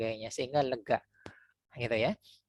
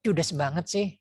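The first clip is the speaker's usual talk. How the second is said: mock annoyed; 6 semitones higher than usual. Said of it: "ada yang marah".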